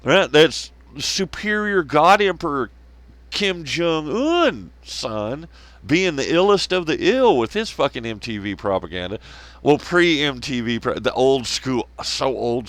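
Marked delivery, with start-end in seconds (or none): 0.0-9.2 mock awe. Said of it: "And I was like".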